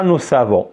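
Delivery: "nous savons" said as the wrong reading, s clearly on avons; mock the mistake "nous savons"; teacher shows the error to avoid; wrong liaison. Shown as a demonstration. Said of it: "C'est pas ça".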